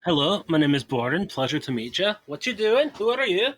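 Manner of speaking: put-on chatty Scottish-accented introduction, rising in pitch. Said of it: "why am I going into an accent?".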